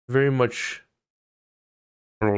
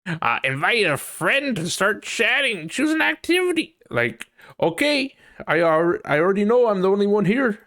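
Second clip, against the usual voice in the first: sarcastic; 10 semitones higher, 5 dB louder than usual. Real, not acted. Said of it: "sarcastic at Discord".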